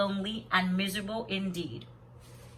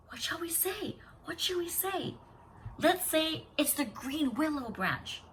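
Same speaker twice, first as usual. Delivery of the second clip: soft, hurried whisper; 7 semitones higher, 6 dB quieter, slower than usual. Acted. Sisters scrambling for an answer, hushed whisper. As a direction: whisper in a panic to each other. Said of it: "but whispered again".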